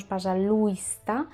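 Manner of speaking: пожалуйста wrongly as "pa-sa-LUIS-ta"; overpronounced I. Shown as a demonstration. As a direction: sound out the й in пожалуйста. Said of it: "Intentamos que no suene mucho, no decimos".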